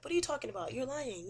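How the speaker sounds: high-pitched mock protest; play-acted offended denial; retold indignant denial. Accused man's retold indignant denial.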